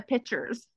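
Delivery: "pictures" said as PITCH-ers, no k; Texas-accented "pitchers". Retold or imitated. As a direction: drop the k in "pictures", Texas-style. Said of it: "And I had a real accent".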